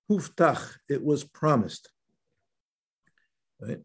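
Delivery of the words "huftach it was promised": HUFTACH set apart and pitched up; emphatic key word. Real, not acted. Rabbi underlining the key word for students, emphatic. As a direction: lean firmly on "huftach", then translate it. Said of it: "that's why I emphasize this word".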